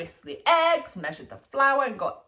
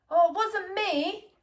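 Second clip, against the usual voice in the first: put-on high, slow, innocent child voice; little boy protesting; 9 semitones higher, slower than usual. A narrator's reading. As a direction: plead your innocence like a small boy.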